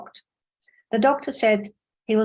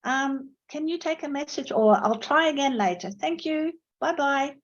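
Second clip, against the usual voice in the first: polite caller; 5 semitones higher than usual. Retold or imitated. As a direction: courteously sign off the call. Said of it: "You'd have to say".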